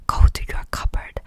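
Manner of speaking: loud, high whispered order; whispered yell. Acted. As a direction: bark it, still in a whisper. Uncle orders boy away.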